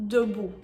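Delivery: debout said clearly with a schwa; French pronunciation. Shown as a demonstration. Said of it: "it is going to be the E sound".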